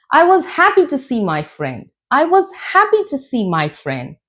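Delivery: HAPPY lifted high with mild joy; joyful intonation. Shown as a demonstration. Teacher showing joy and excitement, lifted on "happy". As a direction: push "happy" up, pleased. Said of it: "Rising intonation expresses your joy".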